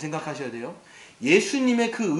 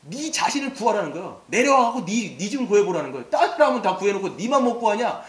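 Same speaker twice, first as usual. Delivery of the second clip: mocking taunt; 2 semitones higher, 3 dB louder than usual. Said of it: "막 이러면서 막 욕을 합니다".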